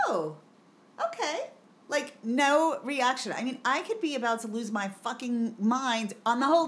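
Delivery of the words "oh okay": mock breezy teacher. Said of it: "they'd walk by everyone".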